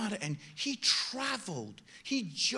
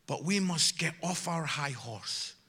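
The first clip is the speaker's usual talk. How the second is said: ordinary delivery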